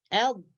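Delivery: dhad with tongue tip touching up top; demonstrated dhad sound. Shown as a demonstration. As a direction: sound out a single dhad for learners. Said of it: "dia menyentuh atas".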